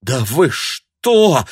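slow, stunned exclamation; astonished. A narrator's reading. Tanya to the shrieking woman, astonished. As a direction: react in disbelief. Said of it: "сказала Таня изумлённо".

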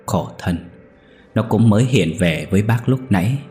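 a touch of grief, held back; mildly sorrowful, voice slightly unsteady; sorrowful trembling voice. Acted. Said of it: "âu sầu run giọng".

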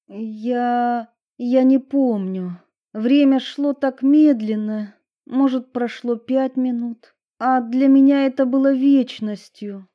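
put-on high, hesitant girl voice; shaken girl. A narrator's reading. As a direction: recall it haltingly, still shaken. Edison recalls her ordeal. (девушка сбивчиво вспоминает пережитое)

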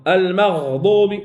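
المغضوب drawn out slowly, each sound clear; slow recitation demo. Shown as a demonstration. Tajweed teacher modelling the word for a student, slow and clear.

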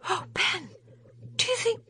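put-on a shocked young woman trailing off; frightened. A narrator's reading. Polly shocked, breaking off.

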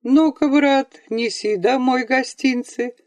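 a hint of a tired father offering gifts; father coaxing. A narrator's reading. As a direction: draw out "Ну-ка" gently to the boy. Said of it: "внятно сказал отец обычным своим голосом".

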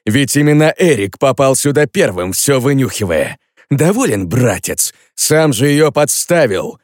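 indignant brother's retort. Acted. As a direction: throw the blame back at him. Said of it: "возмутился Шон".

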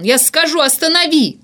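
high, loud frantic plea; desperate yelling. A narrator's reading. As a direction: scream to halt him, giving in. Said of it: "орал он". (отчаянный вопль, сдаётся)

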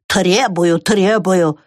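lightly grumbled mocking echo; mild mock grumble. A narrator's reading. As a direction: echo her word "требую" with a grumble. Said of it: "проворчал бобёр".

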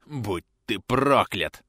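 slow rasping curse; hoarse curse. Acted. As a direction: rasp the curse out slowly. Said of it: "прохрипел бандит".

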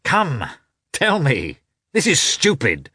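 high-pitched, good-humoured protest; smiling protest. A narrator's reading. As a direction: press for an answer through a smile. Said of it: "said Vronsky, smiling".

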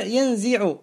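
ينزع said yanziʕu, with i after the z; kasra on ينزع. Shown as a demonstration. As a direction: give ينزع a short i in the middle. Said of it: "بالكسر".

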